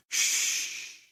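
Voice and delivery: sharp whispered shush; hushing shh. A narrator's reading. Narrator hushing a startled listener, whispered. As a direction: hush them at once.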